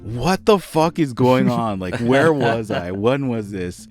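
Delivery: mom hearing the stories for the first time, aghast; shocked mom. Retold or imitated. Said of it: "she's like".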